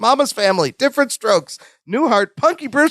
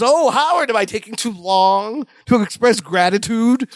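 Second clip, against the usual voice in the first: higher-pitched opening on a sanctimonious complaint; mock guilt-tripping; 3 semitones higher than usual. Retelling a sitcom guest piling guilt on Howard, mock guilt-tripping. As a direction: lightly lay on the religious guilt. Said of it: "really putting on the religious guilt".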